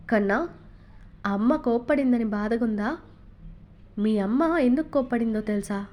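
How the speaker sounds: father soothing his scolded son, gently; gentle. Acted. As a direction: coax the sad child tenderly. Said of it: "మృదువుగా అడగగానే".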